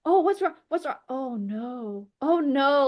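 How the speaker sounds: high-pitched, fretting sympathy; worried mom. Acted. Mom hearing her daughter cry on the phone, worried. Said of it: "She hears me crying".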